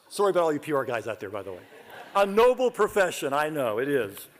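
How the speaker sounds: ordinary talk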